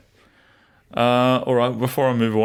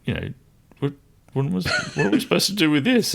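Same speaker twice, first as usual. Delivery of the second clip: incredulous; 8 semitones higher, faster than usual. Retold or imitated. Husband retelling his wife's reaction, incredulous. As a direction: imitate a baffled, scoffing reaction. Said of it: "was a bit incredulous, kind of going".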